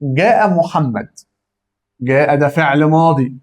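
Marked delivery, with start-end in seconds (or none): 0.0-1.1 جاء محمد said slowly for the class; slow, careful teacher demo. Shown as a demonstration. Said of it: "بص كده".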